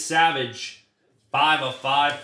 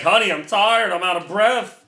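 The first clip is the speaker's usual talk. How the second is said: higher, louder, whiny plea of an exhausted husband; hammed-up complaint to his wife about being worn out; louder mock whine, begging for a break; mock tired whine; 6 semitones higher, 5 dB louder than usual. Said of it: "I'm like".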